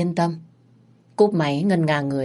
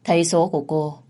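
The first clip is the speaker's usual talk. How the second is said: ordinary delivery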